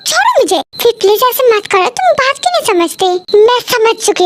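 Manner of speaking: high, fast distressed protest; upset pleading. Acted. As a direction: push him away, voice rising and hurried. Argument, pulling away.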